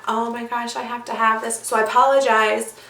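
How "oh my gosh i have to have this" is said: inner thought. Retold or imitated. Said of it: "and I thought".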